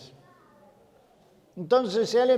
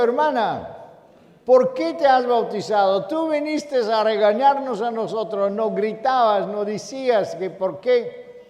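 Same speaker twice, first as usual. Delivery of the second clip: pregunta asombrada; 6 semitones higher, 4 dB louder than usual. Retold or imitated. Predicador le reclama asombrado a ella.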